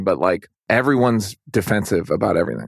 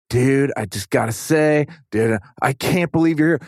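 excited fan; 4 semitones higher than usual. Retold or imitated. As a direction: gush like a starstruck fan. Starstruck fan recognizes him.

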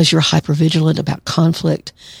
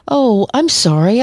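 higher, slow, falsely sweet sorry with a rising tune; passive-aggressive apology; 6 semitones higher than usual. Retold or imitated. Therapist mocking a manipulative friend, slow fake-sweet apology. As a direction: purr a fake apology you don't mean. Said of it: "Kinda sent shivers up and down my spine".

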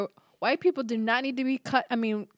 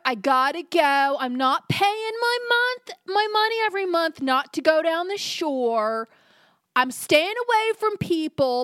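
high, bouncy surfer-dude voice; playing a carefree beach-goer; surfer boy white woman; 3 semitones higher than usual. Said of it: "Why does your white woman sound like a surfer boy".

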